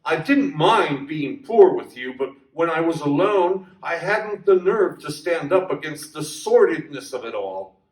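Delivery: a mild plea to a returned lover; pleading. Acted. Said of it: "Deirdre cried out".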